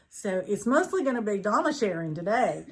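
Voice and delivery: giggling through the words; trying not to laugh; stifled giggles. Real, not acted. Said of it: "We have been laughing so hard".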